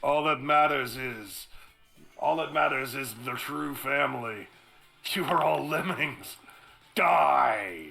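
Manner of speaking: zealot villain. Acted. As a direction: sneer then shout die. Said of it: "villain before opening fire".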